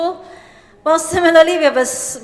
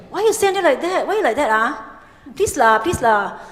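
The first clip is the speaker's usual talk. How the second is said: Singlish; 3 semitones higher than usual. Shown as a demonstration. Speaker demonstrating Singlish to an audience, Singlish lilt. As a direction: sing out the Singlish tones. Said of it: "This is English".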